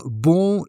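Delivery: bon with a nasal vowel like in long, no G at the end; French nasal on bon. Shown as a demonstration. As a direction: say bon through the nose. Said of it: "is nasal in French".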